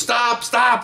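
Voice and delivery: high-pitched mock police order; imitated urgent command. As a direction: call out to halt someone charging. Supervisor ordering charging mother to stop.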